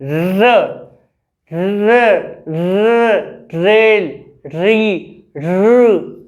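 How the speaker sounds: र, र, रेल, री said slowly and separately, with a clear tapped र; each र tapped with the tongue held behind the teeth; tongue-tip r drill. Shown as a demonstration. Teacher demonstrating र drills to students with a tapped tongue. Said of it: "र के alphabets को repeat कर सकते हैं".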